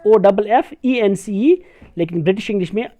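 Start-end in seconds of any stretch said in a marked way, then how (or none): 0.1-1.6 slow letter-by-letter dictation; slow teacher spelling. Shown as a demonstration. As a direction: spell each letter slowly. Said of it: "यहाँ पर ऑफेंस".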